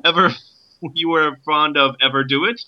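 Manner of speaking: a light put-on Irish accent, questioning. Joyce questioning Nora in a light Irish accent. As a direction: ask it with a mild Irish lilt. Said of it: "My Irish accent is going away".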